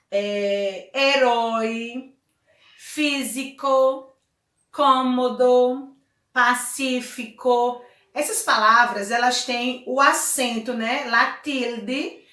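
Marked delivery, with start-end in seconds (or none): 0.9-7.8 herói, físico, cômodo, pacífico, each slow and stretched on the accented syllable; stress on antepenultimate syllable. Shown as a demonstration. Teacher gives examples of esdrújulas, slow words like físico with the accent marked. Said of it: "na antepenúltima sílaba".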